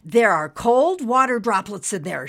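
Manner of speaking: high, loud, sudden idea; girl shouts her bright idea; exclaiming. Acted. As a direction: blurt it out with a flash of hope. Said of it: "she exclaimed".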